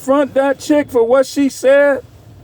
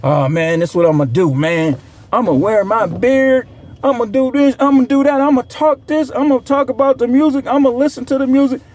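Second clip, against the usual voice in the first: mocking a creator; 3 semitones higher than usual. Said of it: "You think 'cause you black".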